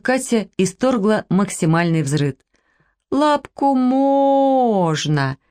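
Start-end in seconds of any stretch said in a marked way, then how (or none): 3.1-5.4 very slow, stretched words, higher; drawn-out verdict. A narrator's reading. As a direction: keep them in suspense by dragging each word. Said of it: "тянул с диагнозом".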